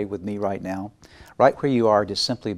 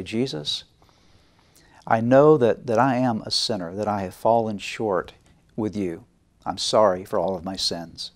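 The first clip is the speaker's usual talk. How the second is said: prayer. Acted. Leads sinner's prayer.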